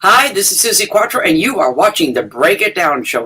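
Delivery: lightly put-on radio DJ voice; measured station ID with a hint of DJ. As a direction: introduce yourself like a DJ on air. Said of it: "that's my D J voice".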